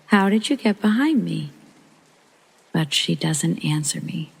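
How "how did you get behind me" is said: high, insistent, leaning on behind; persistent question. Retold or imitated. Mother pressing her daughter, insistent and high. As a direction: press the question, baffled and pitched up. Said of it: "I'm persistent and I ask a few more times".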